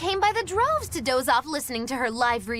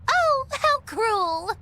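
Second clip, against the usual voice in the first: mock sympathy; 11 semitones higher, much slower than usual.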